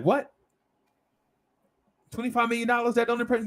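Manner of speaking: high, squeaky disbelief at the small goal; shocked disbelief. Retold or imitated. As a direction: act stunned that it's not impressive.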